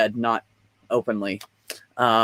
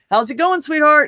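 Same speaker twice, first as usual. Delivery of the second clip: put-on much higher, sing-song mother greeting her child; sweet mom voice; 14 semitones higher, 4 dB louder than usual. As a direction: coo it like a doting mom.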